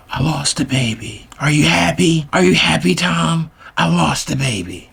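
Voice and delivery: high-pitched, tearful imitation; crying girlfriend. Girlfriend calls to say she lost the baby, mock crying. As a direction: plead accusingly, mimicking a distraught girlfriend. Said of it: "crying. And she's like".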